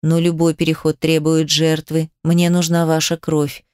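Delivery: low demon voice within; demonic voice. Acted. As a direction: speak as the inner demon. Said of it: "Голос демона звучал внутри меня".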